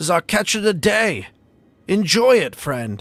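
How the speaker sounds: gruff muffled creature voice. A tusked woman serves you the catch of the day, speaking in a gruff voice. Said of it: "she says to you in a in a gruff voice".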